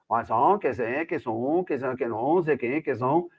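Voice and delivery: mock Venetian gibberish in a singsong; Venetian accent. Journalist shows how Venetians sound, imitated Venetian accent. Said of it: "porque o som deles é".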